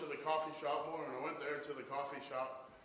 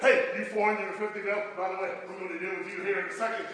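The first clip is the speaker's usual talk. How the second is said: mock aside; 6 semitones higher, 11 dB louder than usual. Aside to the prophets.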